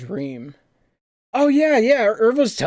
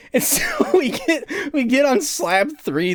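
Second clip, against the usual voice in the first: laughing it out, voice pitched way up; giggling through the words as it comes back; excited laugh breaking into the story; 12 semitones higher than usual. Real, not acted. Excited laugh recalling the game.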